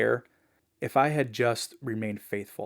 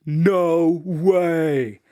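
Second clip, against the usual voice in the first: higher, louder blurt of disbelief; stunned disbelief; 6 semitones higher, 8 dB louder than usual. Retold or imitated. Zach learning the Bible giver is his neighbor, stunned. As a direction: blurt it out like you can't believe it. Teen hears stunning coincidence.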